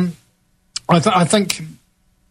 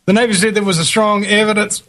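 put-on Mexican accent; 3 semitones higher, faster than usual. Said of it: "I love doing a Mexican accent".

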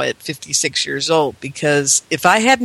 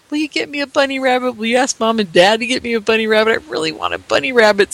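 put-on higher, fast childish begging; a child in the car nagging her grandparents, fast pleading; child's nagging; 3 semitones higher, faster than usual. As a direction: pester like a little kid. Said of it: "So I kept saying".

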